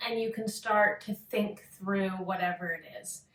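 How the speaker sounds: unhurried meditation guidance with long pauses; calm yoga-teacher meditation voice; guided meditation. Acted. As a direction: lead a listener gently into focus, pausing between phrases.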